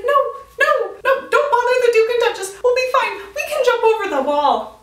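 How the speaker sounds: high, loud, laughing mock panic. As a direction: squeal it like a frantic friend. Panicking friend voiced, retold.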